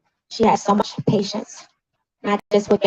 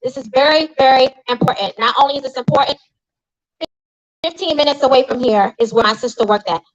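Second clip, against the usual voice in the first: raised pitch, emphatic public condemnation; indignant rebuke; 4 semitones higher than usual. Real, not acted. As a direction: call them out with real outrage. Rebukes the newspaper over sister's death.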